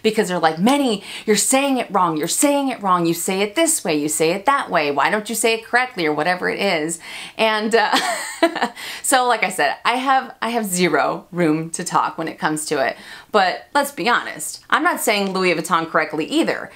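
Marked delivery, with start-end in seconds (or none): 0.6-6.1 mildly exasperated, imitating scolding viewers; mock frustrated complaint. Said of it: "so many people get frustrated". 15.3-15.9 "Louis Vuitton" in an American accent, LOO-ee vuh-TAHN; everyday American pronunciation of "Louis Vuitton". Shown as a demonstration. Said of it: "saying it with an American accent".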